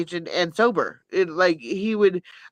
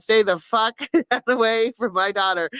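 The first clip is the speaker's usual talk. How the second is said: laughing mock warning; 6 semitones higher than usual. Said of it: "retold warning, laughing".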